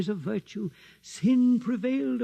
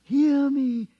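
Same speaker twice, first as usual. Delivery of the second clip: commanding threat; 4 semitones higher, 7 dB louder than usual. Acted. Priest threatens heretic.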